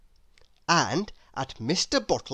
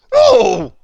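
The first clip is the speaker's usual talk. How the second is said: very high, loud startled squeak; shrill squeak; 14 dB louder than usual. Acted. Mister Grumpy squeaking as he is tickled again. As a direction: squeal it in sudden shock. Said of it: "squeaked Mister Grumpy".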